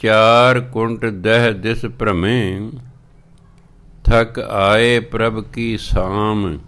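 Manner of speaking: measured, drawn-out scripture reading; slow devotional recitation of Gurbani. Acted. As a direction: read each word slowly and carefully. Recites Gurbani line slowly.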